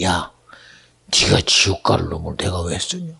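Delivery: low, stern rebuke from God. Retold or imitated. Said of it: "마음에 감동이 돼".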